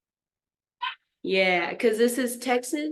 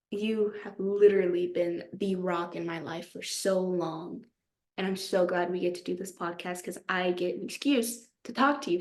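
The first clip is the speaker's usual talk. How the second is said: sincere praise; 3 dB quieter than usual. Real, not acted. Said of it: "I'm gonna hype this girl up".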